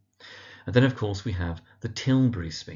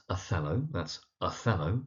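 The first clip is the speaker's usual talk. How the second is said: Othello with the stress on its second syllable; measured teacher's model of Othello, second syllable stressed; 4 dB quieter than usual. Shown as a demonstration. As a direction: say Othello, leaning on the middle syllable. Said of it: "emphasis on the second syllable".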